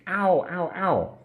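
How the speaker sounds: high, repeated ow of pain; mock pained ow. Teacher miming a headache for learners, mock pained cries. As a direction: act out a headache with ows.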